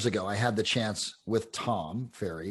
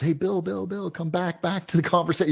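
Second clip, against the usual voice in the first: raised, high call to bring him back; 9 semitones higher, 5 dB louder than usual. Retold or imitated. Mentor calling a distracted Bill back to the table, raised voice. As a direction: call his name loudly, high.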